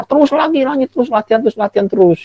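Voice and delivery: high, emphatic TERUS each time; urging stress on terus. Shown as a demonstration. Teacher urging pupils to keep practicing, stressed terus. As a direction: push the word terus hard, pitch high. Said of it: "teacher urging keep practicing".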